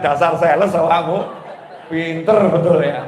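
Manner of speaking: laughing. Retold or imitated. Preacher teases the saleswoman, laughing loudly. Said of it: "Saya bilang".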